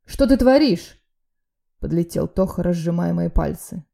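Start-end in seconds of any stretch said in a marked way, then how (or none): 0.0-1.0 high, loud alarmed yell; alarmed shout. A narrator's reading. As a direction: yell to stop him. Friend pulls him off. (испуганный громкий окрик)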